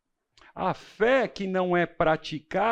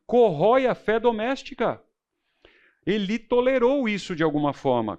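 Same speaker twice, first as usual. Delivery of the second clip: ordinary delivery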